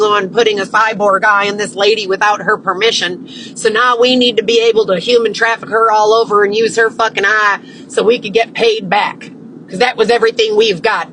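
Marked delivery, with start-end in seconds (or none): 3.6-11.1 mock trafficker voice. Voicing the traffickers.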